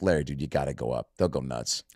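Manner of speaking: imitating Pete nudging Larry; Pete urging. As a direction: coax him casually.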